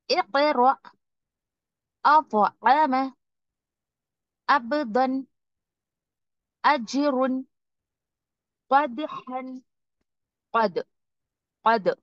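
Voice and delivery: each word recited slowly with a bouncing stop; qalqala examples. Shown as a demonstration. Teacher reciting examples for students, bouncing stops. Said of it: "आवाज में एक तरीके की bouncing".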